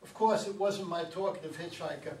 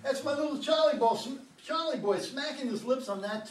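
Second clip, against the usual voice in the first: excited; 6 semitones higher than usual. Acted. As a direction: call out thrilled, pointing at old home movies. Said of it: "Dan sounds excited as he points at the screen".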